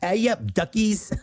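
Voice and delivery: put-on a light northern British accent, high and cheery. Reading a fan's email in a light British accent. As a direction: greet them like a Yorkshire local, lightly. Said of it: "you can do the British accent".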